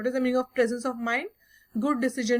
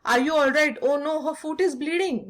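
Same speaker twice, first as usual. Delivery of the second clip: mildly anxious, slightly raised voice; understated motherly alarm; worried; 3 semitones higher than usual. Acted. Mother fussing over her daughter's bleeding foot, mildly worried. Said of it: "she got worried".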